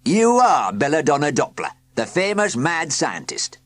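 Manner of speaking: loud, pointed accusation; accusing. A narrator's reading. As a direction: pin him with it.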